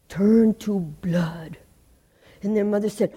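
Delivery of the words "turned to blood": slow hushed whisper for the scary moment; spooky whisper. A narrator's reading. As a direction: whisper it to give the listeners chills. Eerie turn in the story.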